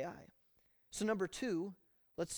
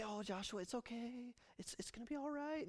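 much softer, tender soothing; baby him gently; mock coddling; 4 semitones higher, 8 dB quieter than usual. What God did not say to Joshua, mock coddling. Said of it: "he doesn't say".

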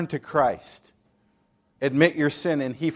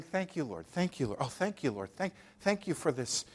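much softer murmured thanks; soft grateful prayer; 9 dB quieter than usual. Acted. Grateful believer thanking the Lord, softly. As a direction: breathe out thanks to God.

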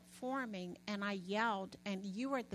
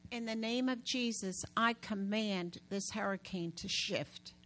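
commanding prayer. Shown as a demonstration. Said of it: "What'd I say?".

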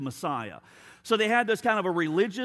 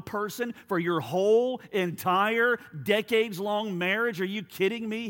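incredulous scoffing; 2 semitones higher than usual. Acted. Devil mocking faithfulness to one spouse, increasingly incredulous. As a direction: question it as if it were absurd, building.

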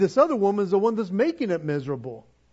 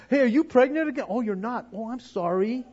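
sarcastic; 2 semitones higher than usual. Retold or imitated. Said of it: "could have been sarcastic and said".

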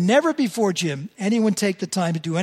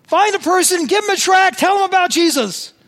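much higher, louder put-on voice of an eager teacher; teacher's instruction; 14 semitones higher, 9 dB louder than usual. Bible college teacher urging students to evangelize, high loud mock voice. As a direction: bark out the orders like a keen instructor. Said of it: "He said".

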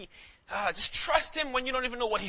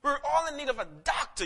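preacher's high cry; 7 semitones higher than usual. Acted.

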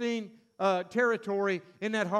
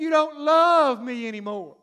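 whining wife; 4 semitones higher, 7 dB louder than usual. Acted.

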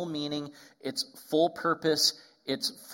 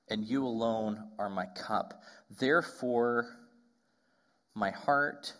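scripture reading; 3 semitones lower than usual. Acted. Reads psalm aloud.

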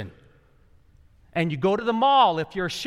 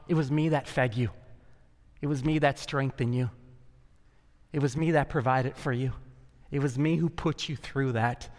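tender; 3 semitones lower, 3 dB quieter than usual. Acted. God's tender private talk.

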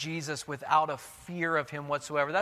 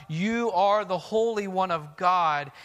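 demon crying out; 3 semitones higher, 5 dB louder than usual. Acted. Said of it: "this demon cries out".

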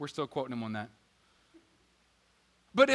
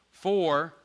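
loud cue; 7 dB louder than usual. Shown as a demonstration. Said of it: "you're gonna say your name loud".

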